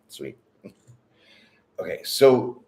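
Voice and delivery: usual speaking voice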